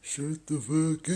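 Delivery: shrill yelled repeat; mock shouted insult. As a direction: snap it back like the clerk. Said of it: "That's what he went".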